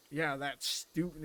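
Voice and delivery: slow "Yeah, that student." with weight on "student"; mimicking a pointed stress. Retelling a patient's loaded remark, stress on "student". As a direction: lean on "student", drawn out and loaded. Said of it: "he said it kinda like".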